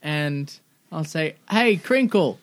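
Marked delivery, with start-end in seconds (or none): 1.5-2.4 far off voice. Acted. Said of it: "it sounds like you're in a hole".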